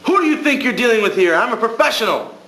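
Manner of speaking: hammed-up outraged shout; retold shout. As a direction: bellow it like an offended professional. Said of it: "Mister Larkin's shouting".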